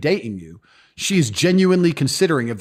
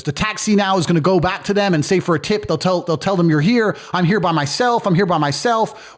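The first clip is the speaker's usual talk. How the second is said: panicking receptionist; 4 semitones higher than usual. Retold or imitated. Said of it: "And the receptionist says".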